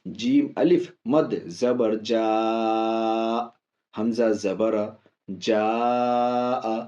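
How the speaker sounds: slow letter-by-letter spelling the other way; demonstrating an alternative spelling method; other method's spelling. Shown as a demonstration. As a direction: spell it slowly as others teach. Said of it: "وہ بولتے ہیں".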